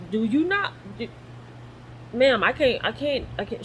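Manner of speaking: high, rising plea to the nurse; panicked pleading. Retold or imitated. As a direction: beg the nurse, voice climbing in alarm. Begging nurse to stop walking.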